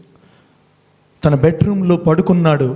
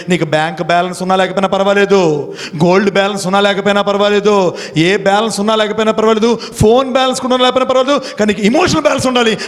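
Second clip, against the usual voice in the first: rising, speeding build-up; 3 semitones higher, faster than usual. Acted.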